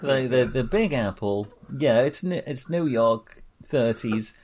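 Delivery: put-on 1930s New York accent; period New York accent. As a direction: talk like a thirties New Yorker. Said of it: "I did that in a period-specific accent".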